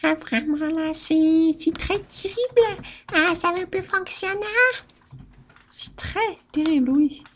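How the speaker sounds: high put-on voice, c'est très terrible said with a foreign tinge; comic high voice; mock dramatic voice. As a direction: ham up the despair in a silly voice. Put-on voice complaining.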